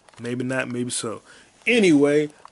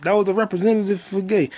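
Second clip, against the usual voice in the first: mock director voice; 7 semitones higher than usual. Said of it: "But he was like".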